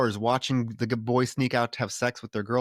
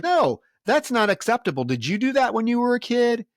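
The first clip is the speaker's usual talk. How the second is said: much higher and louder, outraged pushback; indignant retort; 11 semitones higher, 4 dB louder than usual. Retold or imitated. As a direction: snap back at him, scandalized. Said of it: "And she's like".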